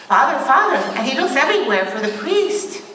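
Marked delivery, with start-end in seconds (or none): 0.1-0.8 louder, higher calls of the name; calling out. Retold or imitated. Young man searching the church for the priest, calling out louder. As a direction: search the room with your voice.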